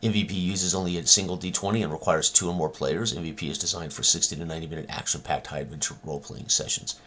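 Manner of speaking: brisk read-aloud of a game blurb. Real, not acted. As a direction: read the description out quickly. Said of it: "I'll read it to you here".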